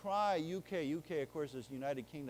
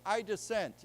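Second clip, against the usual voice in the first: mock formal objection; 4 semitones higher, 4 dB louder than usual. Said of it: "you say".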